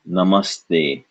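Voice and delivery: Namaste with a as in ugly duckling; careful demo. Shown as a demonstration. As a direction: say Namaste with uh vowels. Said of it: "it is not a, it is a".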